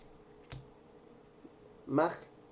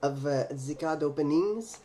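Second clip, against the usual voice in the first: fake French accent; 3 semitones lower than usual. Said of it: "How is my fake French accent so far?".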